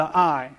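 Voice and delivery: I leaned on, set apart; single out the word I; I given the weight; stress on I. Shown as a demonstration. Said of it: "emphasize a different word each time".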